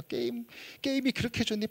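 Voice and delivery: acted-out scolding of a child; imitated parental nagging. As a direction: nag like an exasperated parent, without raising the volume. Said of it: "폭풍 잔소리".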